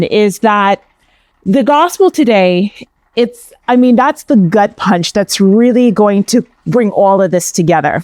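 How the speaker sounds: light New York accent; a quick, light New York accent. Shown as a demonstration. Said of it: "That was my New York accent there, all of it".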